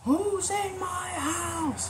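high-pitched, long-drawn mock holler; angry woman. Burglar imitating the homeowner demanding who is there, high mock angry holler. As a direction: stretch every word in a very high imitated woman's voice. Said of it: "she sounds very angry, very upset".

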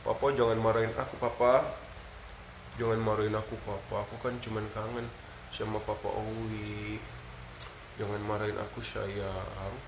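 soft pleading dog voice; gently voiced pleading pup; voicing the dog. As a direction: speak for the dog, pleading softly.

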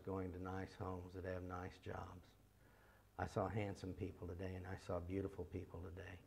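soft, understated bedtime prayer; intimate prayer. Acted. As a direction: say it softly to God at night.

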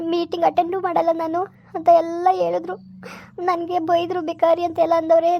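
venting her anger to her father; upset outburst. Acted. Daughter venting hurt at mother. (ಕೋಪದಿಂದ ಜೋರಾಗಿ ದೂರುತ್ತಾ)

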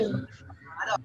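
ordinary delivery

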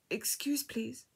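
small, high voice fading to a whisper; scared and timid. A narrator's reading. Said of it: "sounded scared and timid".

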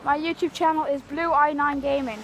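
shouting the channel name; loud announcement. Real, not acted.

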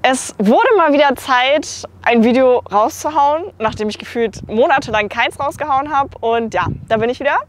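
recorded outdoors in wind; wind on mic. Real, not acted. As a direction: wind noise over the mic. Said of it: "Sorry für die Windgeräusche".

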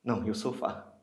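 exaggerated, biting praise; bitter sarcasm. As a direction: rave about it sarcastically. Bitter mock praise of hospital sofa.

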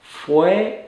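slow, careful Spanish model sentence; slow model phrase. Shown as a demonstration. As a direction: spell out each word slowly for learners. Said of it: "this is the preterite of the verb ser".

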